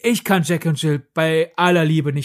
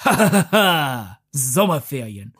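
mock cool laugh then low drawn-out Sommerferien; lightly voiced smug teenager; imitating pseudo-cool teen; 5 semitones lower than usual. Mocking a pseudo-cool teen in the film, lightly voiced cool drawl. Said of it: "wie er in ungefähr diesem Tonfall sagt".

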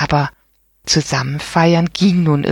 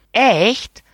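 high, incredulous question; can't believe what he hears; disbelieving; 7 semitones higher than usual. A narrator's reading. Boy doubting the old man's birthday, disbelieving. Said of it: "hakte Ben ungläubig nach".

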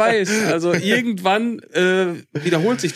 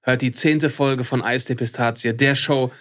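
arrogant; 2 semitones lower than usual. Acted. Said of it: "es wird nicht mehr arroganter".

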